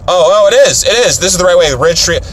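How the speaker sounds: high, excited relief; sudden realisation. Real, not acted. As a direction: burst out as you spot the right road. Suddenly realises it is right road.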